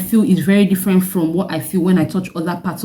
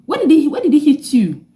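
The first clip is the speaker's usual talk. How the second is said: alarmed mother; 8 semitones higher than usual. Retold or imitated. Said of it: "My mom was like".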